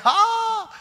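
high sniffing "Ah" at a smell; a delighted high sniff of food. Retold or imitated. Catching a smell of food entering a house, high delighted "Ah".

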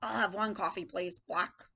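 lightly voiced, dropping low; a hint of curt grump; gruff old man. Teacher voices old man ordering coffee, lightly gruff. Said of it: "This man is very angry".

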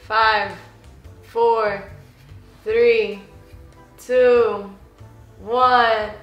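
evenly spaced, slightly low count; measured countdown. Real, not acted. Host timing the player's answer, measured countdown. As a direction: count off each number with a pause.

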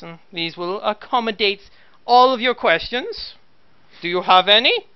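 cold commissar giving orders. Acted. GM voices the commissar.

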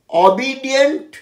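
অবিডিয়েন্ট as o-BEE-dient; adjective form. Shown as a demonstration. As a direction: demonstrate অবিডিয়েন্ট with a clear "bee". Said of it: "adjective হচ্ছে অবিডিয়েন্ট".

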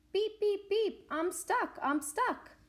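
loud, high mock cry for help; Little Blue Truck. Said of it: "cried the Little Blue Truck".

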